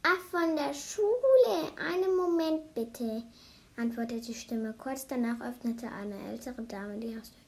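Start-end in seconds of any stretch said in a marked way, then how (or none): 0.0-3.2 higher, slow, friendly lilt; friendly intercom voice. A narrator's reading. Lady on the intercom to schoolchildren, friendly. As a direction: answer sweetly, drawing the words out. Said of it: "antwortete eine freundliche Stimme".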